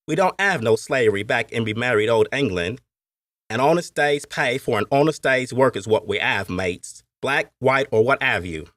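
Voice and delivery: lightly voiced Cockney workman; a hint of a Cockney talking to his mates; Cockney accent. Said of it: "had said a man with a Cockney accent".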